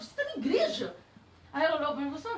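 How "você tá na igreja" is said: high, laughing tease; teasing laugh. Retold or imitated. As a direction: joke with her, laughing. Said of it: "Porque ela ficava rezando". (provocação aguda, rindo)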